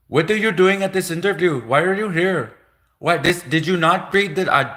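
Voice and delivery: mock-scolding the applicant for showing up; shocked interviewer. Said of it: "the Indian people are shocked, like".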